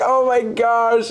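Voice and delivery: high, drawn-out imitation wail; exaggerated tearful outpouring, retold; mock bawling. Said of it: "like, bawling".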